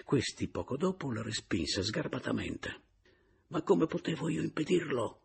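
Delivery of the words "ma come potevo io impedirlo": higher, exasperated protest; exasperated, raised voice. A narrator's reading. Caporale protests to Papiano, exasperated and raised. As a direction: voice lifted in intense exasperation. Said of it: "alzando un po' la voce con intensa esasperazione".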